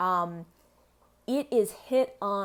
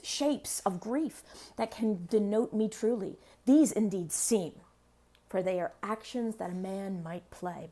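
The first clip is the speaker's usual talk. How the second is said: dramatic recitation. Acted. Recites Hamlet's speech.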